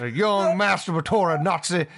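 lightly imitated Southern drawl; Benoit Blanc Southern drawl. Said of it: "I've been doing the voice".

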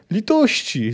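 high wail without extra volume; acted, restrained howl for mercy; wailed plea. A narrator's reading. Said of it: "zawył klęczący w błocie chłopak".

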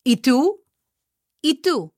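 TÚ lifted as a question; asking a question. Shown as a demonstration. Teacher models asking the question back, questioning. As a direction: ask "¿Y tú?" with the stress on tú. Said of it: "they are going to ask you".

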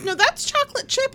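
high, fussing over the cookie; fussy old man. Retold or imitated. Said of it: "He goes".

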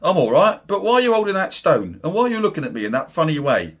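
half-hearted Cockney voice; Cockney accent. Acted. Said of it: "Cockney accents for this".

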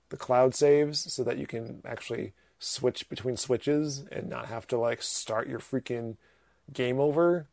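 crackling microphone sound; crackly usb mic. Real, not acted. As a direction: talk through a crackling mic. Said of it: "My mic is crackling?".

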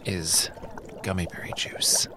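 hushed, conspiratorial reveal; secretive whisper. Acted. Dealer reveals secret elixir.

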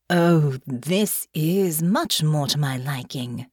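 haughty noblewoman voice. Acted. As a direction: savor each word like a spoiled aristocrat. Delphinia speaks, pleased and haughty.

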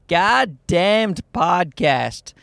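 "Goddamned" drawn out, ending on a D; slow "Goddamned", the D kept at the end; final D sounded. Shown as a demonstration. Host showing off his show title, slow "Goddamned" with final D. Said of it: "throwing in the, the E D".

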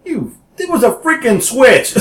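quoting mom through laughter; laughing mom quote. Retold or imitated. Son retelling his mom's words, laughing. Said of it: "And my mom's like".

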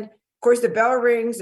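usual speaking voice

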